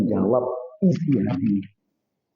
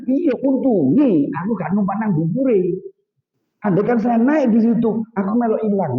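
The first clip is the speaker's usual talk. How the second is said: relieved husband; 7 semitones higher than usual. Retold or imitated. Abu Nawas explains his luck.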